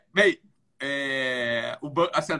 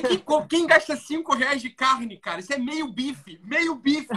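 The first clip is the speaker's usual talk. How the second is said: high, slow incredulous mockery; 8 semitones higher, slower than usual. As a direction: scoff at the absurd purchase. Mocking the absurd purchase.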